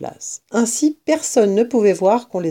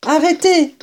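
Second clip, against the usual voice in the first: higher, sharp order; commanding stop; 8 semitones higher than usual. A narrator's reading. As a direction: halt them with a firm fox command. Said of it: "ordonna maître renard".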